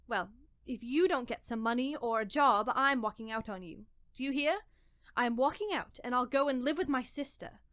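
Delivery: angry threat. Acted. Wife threatens husband.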